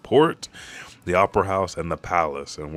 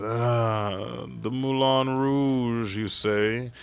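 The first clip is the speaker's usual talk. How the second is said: gentleman voice; 3 semitones higher, 4 dB quieter, much slower than usual. Retold or imitated. Brooke's gentleman skeleton voice.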